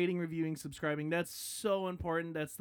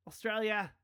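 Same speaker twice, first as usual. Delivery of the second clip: bad Australian accent; 2 semitones higher than usual. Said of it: "I'm not good at this".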